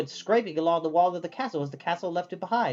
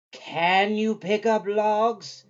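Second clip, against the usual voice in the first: intrigued; 5 semitones higher, 4 dB louder, much slower than usual. A narrator's reading.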